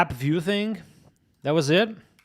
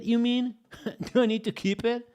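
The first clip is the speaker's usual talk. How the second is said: high rising question through a laugh; can't believe the suggestion, laugh it out; amused disbelief; 8 semitones higher than usual. Real, not acted. Rereading chat, amused disbelief.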